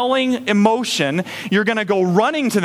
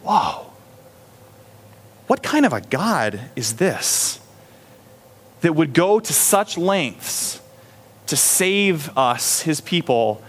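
slow, hushed amazed question; awed wonder; 4 semitones lower, slower than usual. Retold or imitated. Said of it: "Instead, I'm asking".

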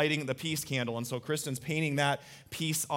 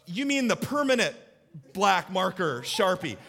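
mock-shocked laughing question; incredulous dad; 2 semitones higher than usual. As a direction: ask it half laughing, half horrified.

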